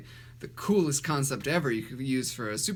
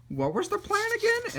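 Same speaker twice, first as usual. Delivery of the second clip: very high parrot voice; high-pitched mimicking bird; parrot imitating henchman. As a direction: squeak it like a parrot posing as someone's friend. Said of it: "and imitates his friend".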